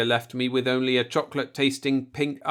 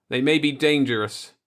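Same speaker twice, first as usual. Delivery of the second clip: thick warning; 3 semitones higher, 4 dB louder than usual. Acted. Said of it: "I warned the others thickly".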